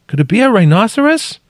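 high, loud called question; calling out. A narrator's reading. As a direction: shout the question in wonder. Question shouted across the crack.

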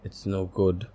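mild rasp. Acted. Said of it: "rasped her father".

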